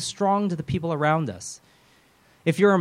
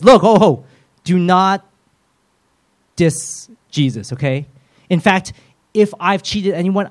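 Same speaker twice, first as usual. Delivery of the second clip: Zacchaeus speaking up; 5 dB louder, slower than usual. Acted. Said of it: "Zacchaeus stands and says".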